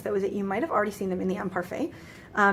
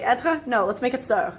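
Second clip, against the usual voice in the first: playing the arbitrary inventors of French; mock French rule-makers; 2 semitones higher, 3 dB louder, slower than usual. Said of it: "they're like".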